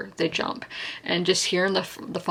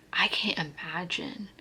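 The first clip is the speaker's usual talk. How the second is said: real whisper; 8 dB quieter than usual. Real, not acted. Emotional about 9/11 victims.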